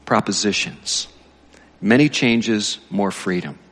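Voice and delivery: lightly projected story reading; reading aloud. A narrator's reading. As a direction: read it out emphatically to a congregation. Reads book aloud.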